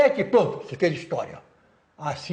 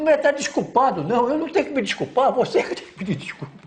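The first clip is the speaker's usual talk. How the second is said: mildly indignant, higher-pitched quick comeback; indignant retort; 6 semitones higher, much faster than usual. Retold or imitated. General retelling how he demanded an apology, mild indignation. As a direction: retell a scolding correction in a raised pitch.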